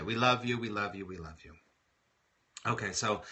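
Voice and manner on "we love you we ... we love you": much softer each time, tender; gently sending love to Diana; fading blessing. Real, not acted. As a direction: let love fade into a hush.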